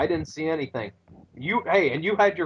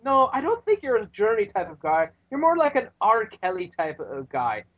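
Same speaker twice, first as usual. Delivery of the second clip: Irish brogue; 5 semitones higher than usual. Retold or imitated. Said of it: "But then he says".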